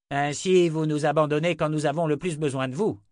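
crying out. A narrator's reading. Townsman accuses lord of abandoning them, crying out. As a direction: cry out in protest, without a full shout. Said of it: "cria un homme".

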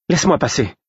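high-pitched angry dismissal, mildly voiced; violent hiss. A narrator's reading. Woman blocked by the man demands passage, violent hiss. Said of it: "siffla-t-elle avec violence".

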